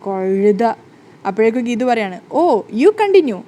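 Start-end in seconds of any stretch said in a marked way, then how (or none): 0.1-0.6 annoyed. Acted. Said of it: "ഗോവിന്ദിന് ദേഷ്യം വരികയാണ്". 2.4-3.4 mock polite. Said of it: "കളിയാക്കിക്കൊണ്ട്".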